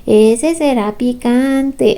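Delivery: slow, knowing aunt voice; a hint of a nosy aunt, slowed down; aunt's warning look. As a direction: drag it out like a suspicious aunt. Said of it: "así como cuando te mira tu tía".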